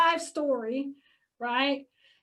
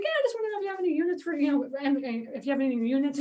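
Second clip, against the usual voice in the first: playing a tenant; faster than usual. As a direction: ring up as an innocent tenant asking about units. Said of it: "like I'm a tenant".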